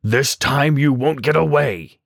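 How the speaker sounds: slow, understated tiger roar; a hint of menace, drawn out; mild roar. A narrator's reading. Tiger corners the rabbit by the river with a mild slow roar. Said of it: "he roared".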